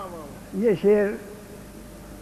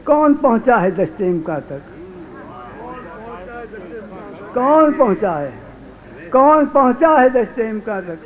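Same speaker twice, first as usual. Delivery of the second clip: projected declamation, rising across the repeats; ghazal recitation; 5 semitones higher, 5 dB louder than usual. Acted. Poet answering Ghalib's line before the audience, building declamation. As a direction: build the question, then ring out the answer.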